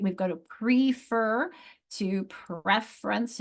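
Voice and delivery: slow "prefer" with a long E, then "preference" with a short E; slow down and contrast the E vowels; vowel contrast demo. Shown as a demonstration. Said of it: "the short versus the long sound".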